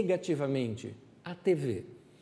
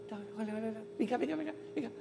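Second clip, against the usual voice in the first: much softer, hushed gentle call; 3 semitones higher, 11 dB quieter, much faster than usual. Acted. Jesus calling the anxious woman over, hushed and gentle. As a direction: coax her in softly.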